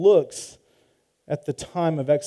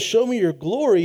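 a higher, louder plea; Moses pleading; 7 semitones higher, 5 dB louder than usual. Retold or imitated. Moses begging God to show his glory, high and pleading. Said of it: "when he says".

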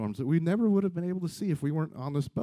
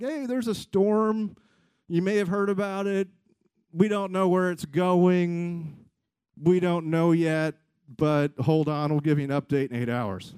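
put-on slow, drawn-out Italian-accented announcement; lightly mocked Italian ship captain; slower than usual. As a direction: imitate an Italian captain's halting English. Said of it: "his English is worse than my English".

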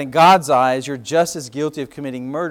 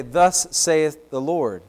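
solemn prophet; much slower than usual. Retold or imitated. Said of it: "They would say".

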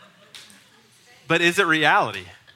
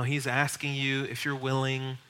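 gently hedging, softer and slower; soft pedaling; 6 dB quieter, slower than usual. Shown as a demonstration. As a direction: ease off, as if not to offend anyone. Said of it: "very soft pedaling".

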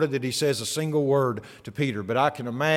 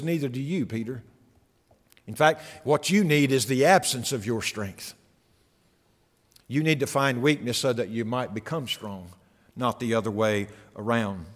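soft, lower, confiding; hushed; 5 semitones lower, 5 dB quieter than usual. Acted. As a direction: drop the voice to a near hush. Hushed message to Peter.

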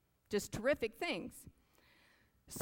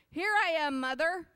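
higher, louder call to the plane; 10 semitones higher, 8 dB louder than usual. Acted. Baby bird calling to the plane, loud hopeful call. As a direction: call up to the sky for mama. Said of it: "he called out".

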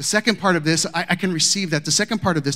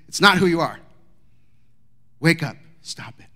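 angry Paul. Retold or imitated. Paul rebuking the Galatian church, building angry. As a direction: scold the church like a furious apostle. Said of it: "And he's mad".

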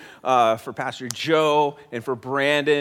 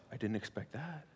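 mock disbelief; 6 dB quieter than usual. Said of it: "present day version of".

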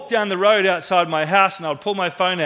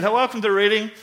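lightly imitated Alabama welcome; mild mock Alabama accent; southern Alabama accent; 3 semitones higher than usual. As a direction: greet with a hint of southern Alabama. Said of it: "southern Alabama".

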